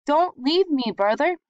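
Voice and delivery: put-on high, loud frightened plea of a small boy; scared little brother pleading from the loft; frightened cry. A narrator's reading. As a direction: beg not to be left alone. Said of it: "he cried".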